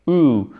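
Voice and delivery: Ooh as a pure rounded vowel; American OO vowel. Shown as a demonstration. Teacher isolating the vowel, American Ooh. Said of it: "et en American English".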